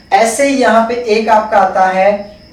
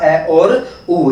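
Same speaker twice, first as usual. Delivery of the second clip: slow spelled-out sounds; 2 semitones lower, much slower than usual. Shown as a demonstration. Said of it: "क्या होगा?".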